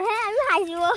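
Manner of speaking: teasing laugh in the voice. Real, not acted. Child teases upset girl over her hut, laughing. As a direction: laugh as you answer back. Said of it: "তুই হাসছিস?".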